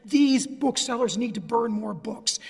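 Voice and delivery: loud, slow, punched-out public demand; podium pronouncement. Retold or imitated. Lawyer voicing a press secretary's demand to the court, loud podium pronouncement. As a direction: declare it slowly and forcefully, as if from a podium. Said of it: "press secretary was at the podium and said".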